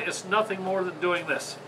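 usual speaking voice

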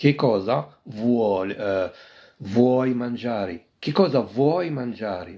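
very slow, syllable by syllable; patient teacher dictation pace; slow model phrase. Shown as a demonstration. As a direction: draw each word out for the class. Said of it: "كي كوزا ستاي تشيركاندو".

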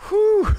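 big high exhale of relief; loud whew. Real, not acted. Pastor pausing mid-stream before his water, loud whew. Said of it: "Let me take my first sip of water".

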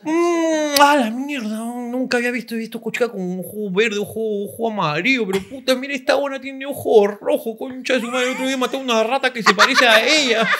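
hammed-up lecher, laughing at the end; leering crude guy voice. Acted quote of leering man.

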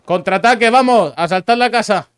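rally the squad to charge; shouting orders over battle. Real, not acted. Ordering counterattack.

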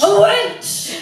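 loud, high sailor pirate yell; pirate shout. Shown as a demonstration. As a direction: bellow it like a pirate. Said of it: "in your best sailor pirate voice".

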